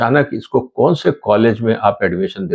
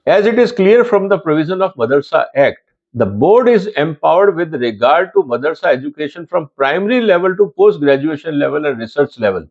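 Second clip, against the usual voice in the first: higher-pitched, formal read-out of a legal text; measured official read-aloud, pitched up; 4 semitones higher, much slower than usual. Real, not acted. Reads the act aloud.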